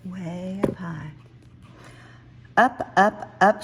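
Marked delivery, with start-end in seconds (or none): 2.6-3.6 eager climbing. A narrator's reading. Cub climbing tree.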